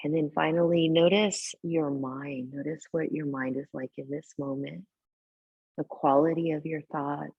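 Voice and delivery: calm guiding voice with long, unhurried pauses; guided meditation. Real, not acted. Teacher settling a yoga class into tonight's practice, guided meditation. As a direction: ease them gently into breath and body awareness. Leads seated breathing meditation.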